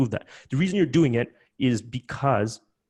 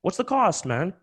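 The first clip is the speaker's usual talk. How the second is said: high, pushy mock haggler; pushy buyer pleading; 7 semitones higher than usual. Host voicing a late buyer begging, high mock whine. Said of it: "and you're like".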